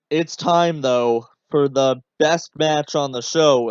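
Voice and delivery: dry sarcasm, slowed a little on the praise; sarcastic. Shown as a demonstration. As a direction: sell the praise, but mean the opposite. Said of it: "with all the sarcasm in the world".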